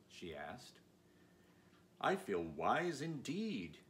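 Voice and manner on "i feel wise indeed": slow, earnest Scarecrow, newly sure of his wisdom. Acted. Scarecrow earnestly tells Dorothy how his new brains feel, slow and sincere. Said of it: "he answered earnestly".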